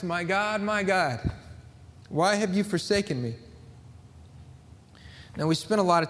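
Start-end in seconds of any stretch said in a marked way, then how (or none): 0.0-3.4 a lifted, stronger retelling of the cry; mild mock shout. Pastor re-voices Jesus's cry from the cross, mildly raised. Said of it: "and Jesus shouts".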